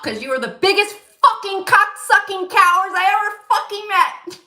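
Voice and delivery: loud, high cursing tirade; high-pitched yelled rant; retold scream. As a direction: scream the insult at them, re-enacting the row. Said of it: "I just screamed".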